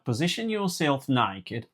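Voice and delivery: slow, mock Australian instructor; imitated Australian accent. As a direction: give it a slowed Australian twang. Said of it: "I think she's Australian".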